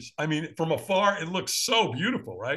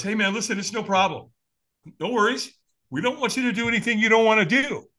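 reassuring; 6 semitones higher than usual. Retold or imitated. Acts out stranger reassuring him.

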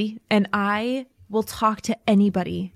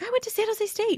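mock self answer; 13 semitones higher, 5 dB quieter than usual. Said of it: "I'm like".

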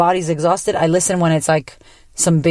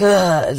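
imitated slouching "ugh"; sluggish groan. Naturopath showing how she sits, sluggish groan. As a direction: groan like someone too sluggish to sit up. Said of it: "like, you're sluggish".

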